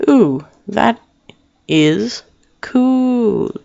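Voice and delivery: high, drawn-out mock awe; impressed reader. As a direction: coo it like a wowed fan.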